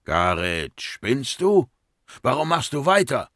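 high-pitched, incredulous reproach; urgent, exasperated challenge; alarmed scolding. Acted. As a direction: demand to know why. Alarmed colleague scolds Garet.

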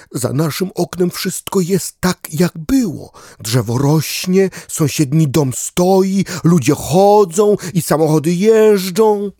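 a small dog musing hopefully; dog character wondering. Acted.

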